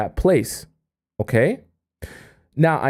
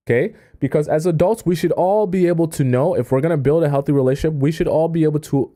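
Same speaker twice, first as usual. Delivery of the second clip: ordinary talk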